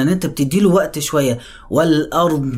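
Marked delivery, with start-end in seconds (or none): 1.7-2.5 والأرض with the ض given a lingering stretch; tajweed recitation. Shown as a demonstration. Teacher showing students the lingering ض in والأرض. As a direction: let the ض in والأرض spread and linger. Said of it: "حرف الضاد في حاجة اسمها استطالة".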